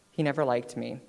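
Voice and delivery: normal talking voice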